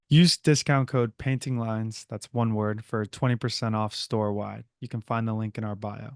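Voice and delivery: ad read. Acted. Sponsor read.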